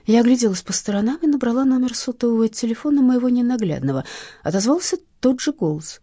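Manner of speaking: usual speaking voice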